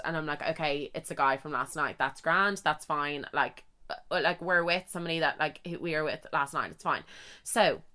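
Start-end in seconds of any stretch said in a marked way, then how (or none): 0.4-7.0 soft, hushed self-reassurance; calm yourself quietly, under your breath; talking herself down. Retold or imitated. Hungover woman soothing herself beside a stranger, softly.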